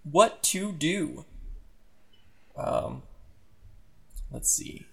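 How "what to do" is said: lightly melodramatic game narration; slightly hammed-up storytelling, stretching the last question; dramatic story narration. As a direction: read the crisis out with mock drama.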